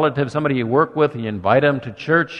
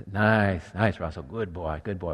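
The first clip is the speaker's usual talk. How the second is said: much softer, gentle coaxing murmur; soft soothing to a dog; 6 semitones lower, 7 dB quieter than usual. Retold or imitated. Man calming his dog on his lap, soft murmur. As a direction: settle the dog on your lap. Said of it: "whisper in his ear and talk softly to him".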